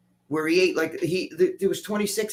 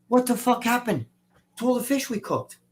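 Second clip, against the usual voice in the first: high-pitched, indignant demand; baffled outburst; 7 semitones higher than usual. Retold or imitated. Gym owner finding the fish platter nearly empty, baffled outburst. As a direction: act out a man stunned by missing food. Acted reaction to missing fish.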